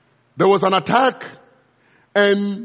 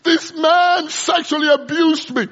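high, loud, furious cry of accusation; anguished shout with a crying edge; shouting in rage; 9 semitones higher, 6 dB louder than usual. Retold or imitated. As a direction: hurl the words at the man. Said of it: "and she shouted".

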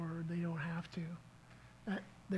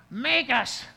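put-on loud slurred drunk retort; slurring drunk; 5 semitones higher, 10 dB louder than usual. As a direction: bark it back like a drunk brawler. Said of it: "in his slurring, licorice voice".

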